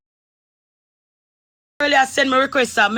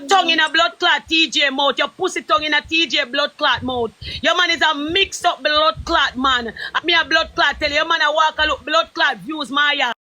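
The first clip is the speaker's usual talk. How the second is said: angry shouting. Real, not acted. Insulting Maya in live argument.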